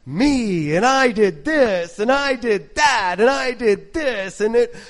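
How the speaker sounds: lightly voiced boasting man; boastful bragger. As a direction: show off like a braggart. Preacher mimics a boastful man.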